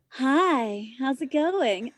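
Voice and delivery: sweet customer service greeting, lightly done; a hint of a polite service-desk hello. Stripper sweetly greeting a customer at her stage. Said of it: "in my best customer service voice".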